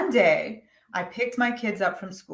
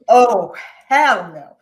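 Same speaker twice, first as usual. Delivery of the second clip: defiant; 10 dB louder, slower than usual. Retold or imitated.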